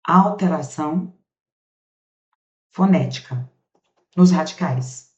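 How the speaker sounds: slow, spaced-out dictation of "Sem alteração fonética"; dictation pace. Shown as a demonstration. Teacher dictating slowly so students can copy. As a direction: dictate it word by word for note-taking. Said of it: "ó".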